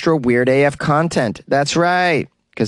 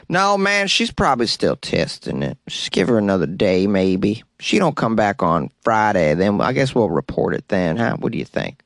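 lazy employee voice; 4 semitones lower than usual. Retold or imitated. Third employee voiced, low.

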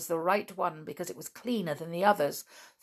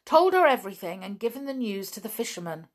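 excited; 4 semitones higher, 5 dB louder than usual. Acted. Dick excited about rescue.

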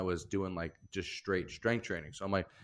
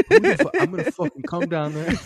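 loud, high mock tirade through laughter; imitated furious girlfriend; 9 semitones higher, 12 dB louder than usual. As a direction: yell a jealous threat, hammed-up.

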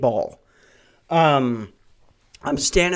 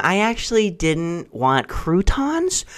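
whiny customer; 2 semitones higher, 4 dB quieter, slower than usual. Retold or imitated. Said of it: "these people".

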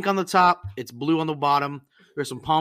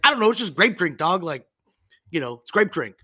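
mock exasperated clerk; 2 semitones higher, 5 dB louder than usual. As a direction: imitate a clerk who's fed up. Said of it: "He's like".

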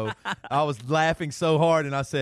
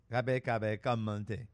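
garbled, low-key Southern drawl imitation; 3 semitones lower, 5 dB quieter, much slower than usual. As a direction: mimic a little girl's unintelligible Southern drawl. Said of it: "she had a very southern drawl accent".

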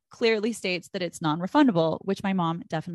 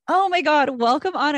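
excited; 7 semitones higher, 6 dB louder than usual. Real, not acted. Host welcomes the guest.

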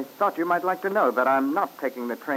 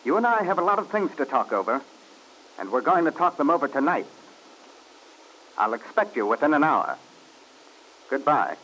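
firm and cold. Acted. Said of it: "he sounded so firm and so cold".

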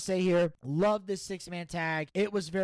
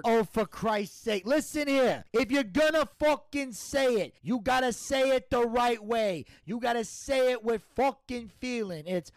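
higher-pitched, emphatic Italian-American mobster; exasperated mob Don; 5 semitones higher than usual. Acted. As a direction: lecture like an irritated mafia boss. Plays the Don coaching the catchphrase.

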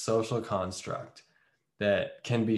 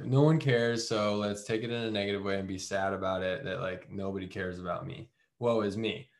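mock self-pity; 4 semitones lower, 4 dB quieter than usual.

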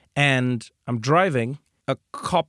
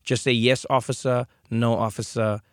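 scared passenger; 3 semitones lower than usual. Retold or imitated. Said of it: "the terror of my American passenger".

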